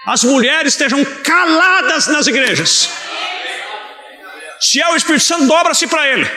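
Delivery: fervent preacher's shout, pitched high; carried-away preaching. Real, not acted. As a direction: thunder the command at the congregation. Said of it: "Me perdoe pela empolgação".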